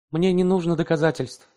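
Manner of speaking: usual speaking voice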